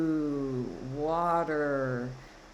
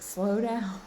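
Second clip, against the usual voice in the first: firm, higher-pitched "Slow down." with the weight on "down"; emphatic; 5 semitones higher than usual. Retold or imitated. Spirit urging the listener to slow down, emphatic. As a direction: press "Slow down." like an urgent insistence, not a scream. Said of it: "Not, not screaming, but, like, really wanting to be emphatic".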